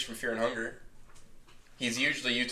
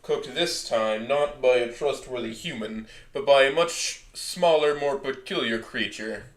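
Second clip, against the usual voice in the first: smooth southern Swedish lilt, slowed; southern Swedish accent; 4 dB louder, slower than usual. Acted. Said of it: "Smooth with the southern Swedish dialect".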